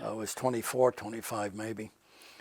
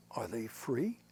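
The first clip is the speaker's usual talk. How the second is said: whispered, softer question; 4 semitones lower, 11 dB quieter, slower than usual. Real, not acted. Old officer asking the interviewer about North Korea, whispered. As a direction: drop to a whisper to make the point.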